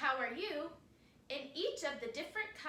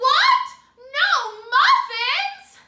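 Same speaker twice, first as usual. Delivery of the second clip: very loud, very high calling shout carrying across distance; 12 semitones higher, 20 dB louder than usual. Teaching listeners about voices, demonstrating a story line in a shouting calling voice. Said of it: "my shouting or calling voice".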